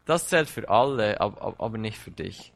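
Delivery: Satan's taunting voice, insistent; mocking accuser. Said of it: "Er wird kommen und dich anklagen und sagen". (spöttisch anklagende Stimme)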